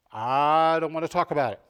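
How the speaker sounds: mock refusal. Quoting people who resist.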